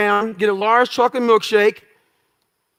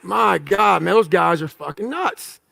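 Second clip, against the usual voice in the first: low-pitched, understated amazement; awed disbelief; 4 semitones lower, 3 dB quieter than usual. Retold or imitated. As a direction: marvel under your breath at what you're watching. Retells his reaction to SEAL footage.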